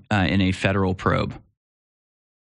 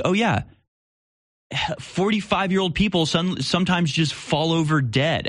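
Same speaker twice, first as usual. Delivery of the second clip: higher, airy mock-casual dismissal; mock breezy shrug; 6 semitones higher than usual. Mocking shruggers, lightly breezy and dismissive. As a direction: brush it off like it's nothing.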